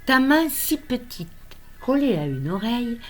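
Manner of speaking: deliberate recital with pauses between lines; poem reading. Acted. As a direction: recite a poem addressed to an unborn grandchild. Lit son second poème. (lecture de poème, posée et tendre)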